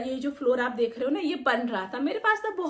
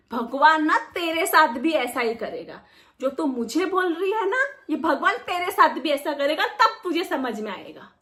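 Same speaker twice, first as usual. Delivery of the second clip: mock curse; 3 dB louder than usual. Friend cursing the commenter.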